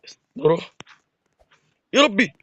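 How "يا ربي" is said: high startled "يا ربي"; startled cry. Real, not acted. Gamer yelps "يا ربي" when an enemy jumps him. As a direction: yelps at the sudden attack. Sudden shock in game.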